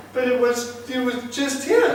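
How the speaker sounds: high, laughing disbelief. Real, not acted. Preacher laughing about money that vanished, high laughing voice. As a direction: say it through a laugh.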